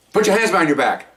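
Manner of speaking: now tell him, no asking; firm order. Shown as a demonstration. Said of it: "You tell them to do it".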